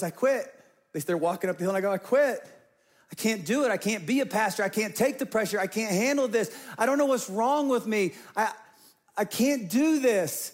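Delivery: retold despair. Retold breakdown to friends.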